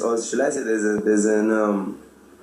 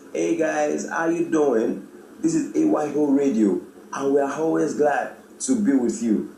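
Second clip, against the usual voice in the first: cool and calm; 3 semitones higher than usual. Shown as a demonstration. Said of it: "Definitely, I am cool. I am calm".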